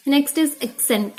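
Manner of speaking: very slow, deliberate announcement; slow heading read. Shown as a demonstration. Teacher to IELTS students, slow tip announcement. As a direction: lay out the new point word by word.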